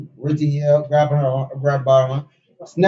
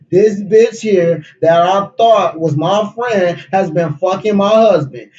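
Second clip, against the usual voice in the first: acted furious accusation; 3 semitones higher, slower than usual. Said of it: "she yelled".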